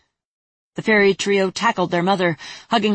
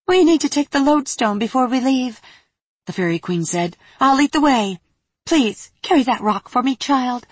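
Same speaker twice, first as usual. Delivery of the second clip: higher, regal fairy queen voice; cold regal fairy queen; 5 semitones higher than usual. Acted. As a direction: speak like a commanding fairy queen.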